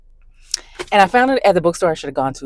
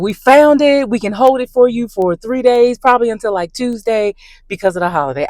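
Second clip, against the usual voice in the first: higher, louder bright shop clerk; cheerful clerk; 6 semitones higher, 4 dB louder than usual. Retold or imitated. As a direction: chirp it like a happy clerk. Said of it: "she called and was like".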